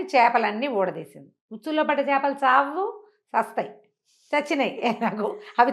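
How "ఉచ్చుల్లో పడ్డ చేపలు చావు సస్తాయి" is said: plain reading voice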